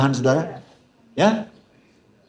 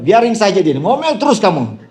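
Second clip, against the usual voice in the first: laughing retort; 4 semitones higher, 4 dB louder than usual. Retold or imitated. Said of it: "Saya bilang".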